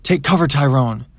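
loud urgent bellow. A narrator's reading. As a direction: bellow a warning from the craft. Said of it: "bellowed in reptilian".

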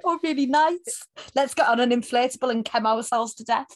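high, light dreamy voice; mock dreamy Andy. Recapper voicing Andy lost in a daydream, mock dreamy. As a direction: drift off like someone blissed out.

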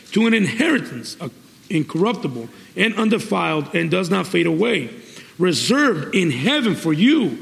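deliberate preacher reading scripture. Real, not acted. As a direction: read the passage out phrase by phrase to a congregation. Reads scripture aloud to congregation.

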